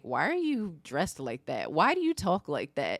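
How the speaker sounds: mimicked picky schoolkids; mildly mocking, nagging imitation; nitpicking and nagging. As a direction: needle with question after question. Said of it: "just nitpicking and nagging".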